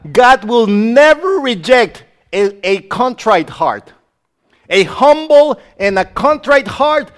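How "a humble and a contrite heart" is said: raised, ringing preacher's call; preaching shout. Real, not acted. Preacher shouting to believers about a contrite heart. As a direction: cry it out to the congregation.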